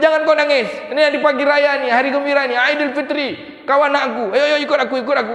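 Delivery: high, loud acted exhortation; acted emphatic call to come along; rousing consolation. Acts the Prophet cheering the orphan.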